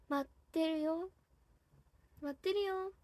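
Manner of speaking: soft Hakata-dialect come-back plea. Pretend. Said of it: "博多弁でやってます".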